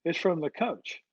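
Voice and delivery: a hint of a cheery waitress turning down the money. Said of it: "and she goes".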